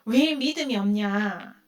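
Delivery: Jesus gently chiding believers, slow and low; Jesus asking gently. Retold or imitated. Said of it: "그 예수님이 뭐라 그래요?".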